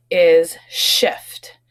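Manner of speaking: whispered new word, shift. Shown as a demonstration. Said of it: "unvoiced reveal".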